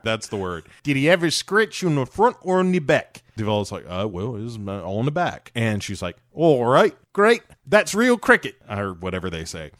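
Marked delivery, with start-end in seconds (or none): 0.8-8.6 mock Australian accent. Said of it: "I can't do, uh, Australian accent".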